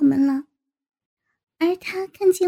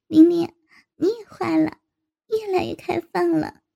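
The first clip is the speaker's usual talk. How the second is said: chuckling mock accusation; laughing, teasing. A narrator's reading. Narrator teases a friend, laughing. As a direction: laugh first, then tease lightly. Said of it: "我此时笑着对小林说".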